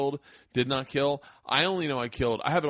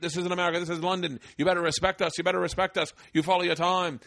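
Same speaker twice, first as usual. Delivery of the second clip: high, hammed-up British warning; horrible London accent; 6 semitones higher than usual. London comics warning the visitor in the green room, horrible British accent. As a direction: badly imitate a pushy London comic, pitched up. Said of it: "I'm doing a horrible accent".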